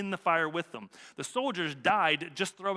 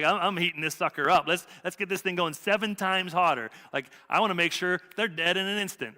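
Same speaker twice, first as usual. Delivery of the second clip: louder, hammed-up furious king; mock angry king; 4 dB louder than usual. Preacher voicing the furious king to his congregation, hammed-up loud. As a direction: play the ticked-off king bragging about the furnace.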